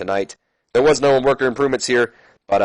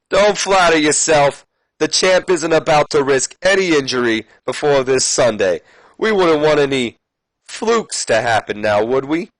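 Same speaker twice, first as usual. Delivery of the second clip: a higher, lightly voiced smug manager; Ric Flair's taunt; 3 semitones higher than usual. Flair mocking Edge from the entryway, lightly voiced. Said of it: "Rick says".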